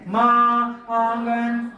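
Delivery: माँ and आंगन with held, open nasal vowels; chandrabindu sound. Shown as a demonstration. Teacher repeats the chandrabindu examples, sustained nasal vowels. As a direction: nasalise माँ and आंगन, tongue touching nothing. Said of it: "चंद्र बिंदु की sound आवाज".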